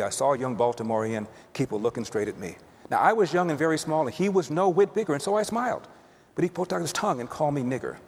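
rhythmic verse, easing down at the close; understated recital of a remembered poem; poem recitation. Acted. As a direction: recite the rhyme simply from memory.

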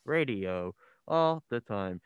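slow announcer read of the station ID; radio announcer voice. Retold or imitated. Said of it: "I think I did that voice great".

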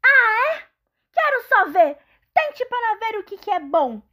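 loud, high defiant goat; growling goat. Acted. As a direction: dare the troll to try. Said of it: "rosnou o grande bode da montanha".

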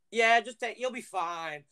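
light high mom voice, breezy; a hint of a carefree mom brushing it off; imitating mom. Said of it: "the person to be like".

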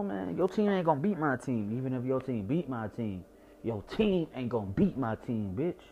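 stubborn team-loyal taunting; defiant trash talk. Retold or imitated. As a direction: talk trash like you refuse to lose. Defiant sports trash talk to friends.

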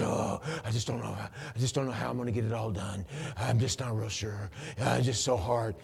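lightly voiced overwhelmed moaner; mock stressed worrier. Imitating someone living under stress, mock fretful. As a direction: imitate someone weighed down, fretting.

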